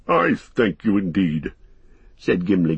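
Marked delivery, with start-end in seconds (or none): 0.1-1.5 lightly voiced gratified dwarf; a touch of delight in a dwarf's voice; greatly pleased. A narrator's reading. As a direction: accept with understated pleasure, in character. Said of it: "greatly pleased".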